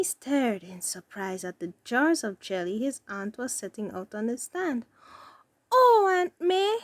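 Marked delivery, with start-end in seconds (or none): 5.7-6.8 high, slow, louder grateful cry; cried out. A narrator's reading. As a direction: burst out with gratitude. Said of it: "he cried at last".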